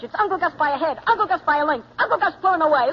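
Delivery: put-on a kid calling his own horse race, building excitement; mock race call. Boy acting out a horse race.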